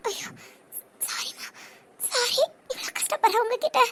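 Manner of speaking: soft, near-whispered regret; hushed apology. Acted. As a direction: apologise under the breath, with pauses. Remorseful apology to grieving woman. (தணிந்த குரலில் மன்னிப்பு)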